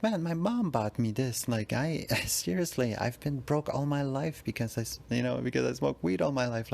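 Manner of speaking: nervous pleading. Retold or imitated. Panicking victim pleads with muggers.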